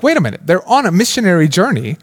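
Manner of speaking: imitating a reader who cannot believe it; puzzled surprise. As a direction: act out a baffled reader's double take. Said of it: "you're like".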